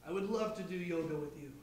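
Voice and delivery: quiet, fast robot line; a hint of a robot. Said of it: "drop the voice".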